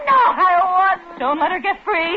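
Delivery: desperate pleading. Acted. Wife pleads in struggle.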